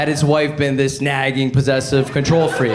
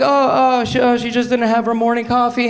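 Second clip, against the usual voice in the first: acted quote; 8 semitones higher than usual.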